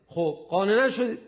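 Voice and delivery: loud, high, challenging call; retold shout. The Prophet challenges the Najran delegation, loud high shout. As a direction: call them out loudly, pressing the point. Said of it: "رسول خدا داد زد".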